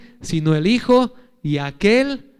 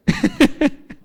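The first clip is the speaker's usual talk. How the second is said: high laugh. Real, not acted. Laughs after joke.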